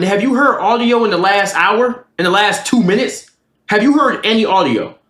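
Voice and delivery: mildly indignant cross-examination; indignant questioning. Retold or imitated. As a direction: press him for an answer, pitch up. Retold argument with roommate over noise.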